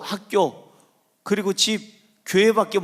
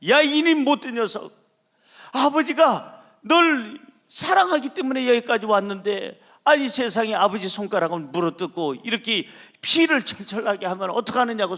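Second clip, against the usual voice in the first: father yelling in shock; 3 semitones higher than usual. Retold or imitated. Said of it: "소리를 지르니까".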